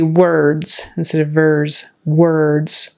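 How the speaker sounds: words with a rounded w and final d; clear W sound. Shown as a demonstration. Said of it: "for the W, your mouth goes in".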